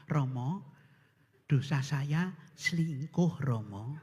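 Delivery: hushed confession. Acted. Husband whispering confession.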